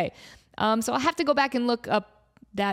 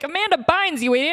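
louder, higher teasing shout; excited shout; 7 semitones higher, 5 dB louder than usual. Retold or imitated. Fan scolding herself over the idol, excited shout. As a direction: bark it at yourself in glee.

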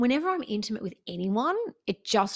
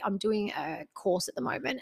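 whisper; 5 dB quieter than usual. Real, not acted. Confiding aside.

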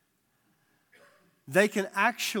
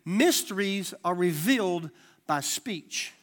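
slower still; slower than usual. Shown as a demonstration. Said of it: "Let me say it again".

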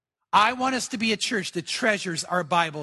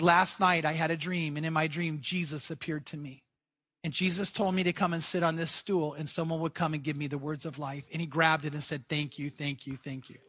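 hushed retelling, sinking lower and softer; retold tearful gratitude; 5 semitones lower, 6 dB quieter than usual. Mullah tells of his dream to the man offering a Bible, hushed gratitude. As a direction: quietly recount it, fading almost away on the thanks. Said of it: "the mullah starts crying".

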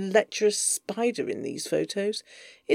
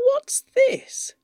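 intimate whisper; 4 dB louder than usual. Acted. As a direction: whisper close to his ear.

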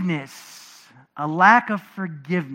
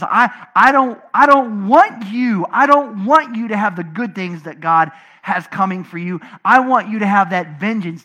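vengeful attitude; 6 dB louder than usual. Retold or imitated. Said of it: "that's our mentality toward people who anger us".

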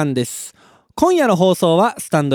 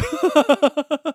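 short laugh; 10 semitones higher than usual. Real, not acted. After the heat story.

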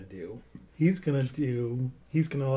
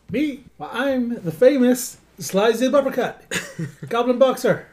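goblin boxer; 8 semitones higher, 5 dB louder, slower than usual. Acted. Player introduces character in role.

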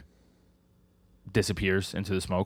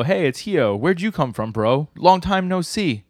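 high-pitched, hammed-up hello to an old buddy; acted excited greeting; 7 semitones higher, 4 dB louder, slower than usual. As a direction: play the delighted reunion, pitch up, stretching out the ending. Acting out greeting an old acquaintance.

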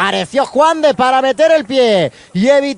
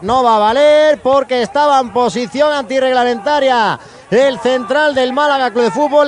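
ordinary talk

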